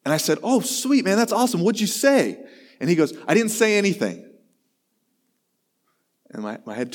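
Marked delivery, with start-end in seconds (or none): 0.4-2.4 pitched well up, enthusiastic; hammed-up cheer for the kid; mock excited. Pastor retelling own delight. 3.3-4.3 higher, matter-of-fact youth voice; innocent kid. Retold or imitated. Luke's innocent reply.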